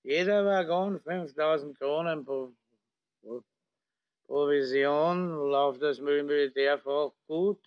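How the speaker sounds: put-on slurring drunk officer; town drunk. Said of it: "liegt betrunken im Coupé lallend".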